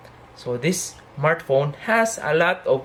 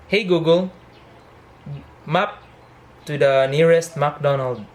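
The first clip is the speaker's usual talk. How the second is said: voice command. Real, not acted. Voice command while driving.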